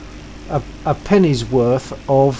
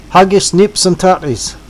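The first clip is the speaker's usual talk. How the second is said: "haggis, nips and tutties" said louder and higher, like a lesson; announced phrase; 5 semitones higher, 4 dB louder than usual. Shown as a demonstration. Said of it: "So remember the phrase".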